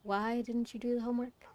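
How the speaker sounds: softly imitated calm teacher. Teacher asking a student about missing homework, very calm. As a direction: question a pupil gently, without any edge. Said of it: "she was very calm".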